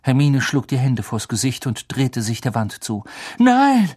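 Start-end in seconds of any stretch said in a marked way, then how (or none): 3.4-3.9 high, loud cry of no; shouted no. A narrator's reading. Harry shouts to stop the killing, loud. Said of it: "rief Harry".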